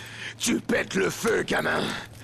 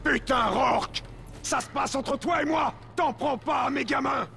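angry shout; 3 semitones higher than usual. Acted. Father yells at captor.

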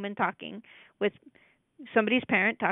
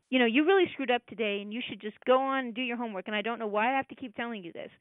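critical parent; faster than usual. Retold or imitated. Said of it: "That's your critical parent talking to them".

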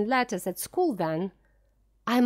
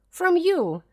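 higher, louder cry of refusal; raised plea; 8 semitones higher, 5 dB louder than usual. A narrator's reading. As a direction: push her away with a raised voice. Flora rejects governess.

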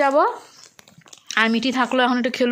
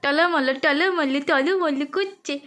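slow sing-song wobble; 3 semitones higher, much slower than usual. Real, not acted. Cheering baby trying to stand. (ধীরে টেনে টেনে টলমল)

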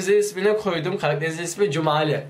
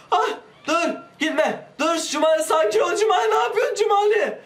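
panicked yelling; 9 semitones higher than usual. Real, not acted. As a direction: shout at the climber to stop. Yells at falling character.

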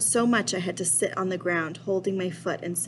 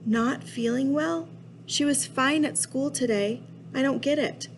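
higher-pitched, questioning disbelief; protesting kid; 7 semitones higher than usual. Acted. Kid questions dad about the sick babysitter, protesting. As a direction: raise the voice into a puzzled protest.

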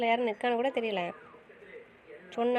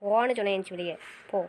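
shouting; faster than usual. Acted. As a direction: yell it at her. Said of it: "ஏன் சத்தம் போட்டுட்டு இருக்க".

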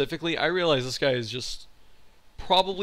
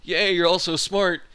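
mock-cheerful teacher; 4 semitones higher, 4 dB louder than usual. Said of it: "be like".

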